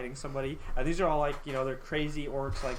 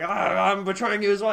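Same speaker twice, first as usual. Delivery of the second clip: high, loud gleeful betrayal; gleeful traitor orc; 7 semitones higher, 9 dB louder than usual. Retold or imitated. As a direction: announce the betrayal with hammy glee. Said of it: "another one is like".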